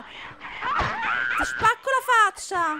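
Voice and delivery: slow, stretched mock-menacing shout; drawn-out threat shout. Gamer hams up a threat at the creatures, slow and shouted. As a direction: drag out every word of the threat.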